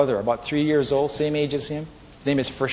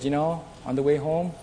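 retold whisper; 2 semitones higher, 6 dB quieter than usual. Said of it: "she whispered to me".

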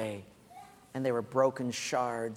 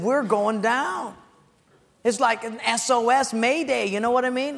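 higher, slowed panicky pastor; mock panic; 8 semitones higher, 6 dB louder than usual. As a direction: play the pastor's alarm, half-acted. Panicked pastor voiced in anecdote.

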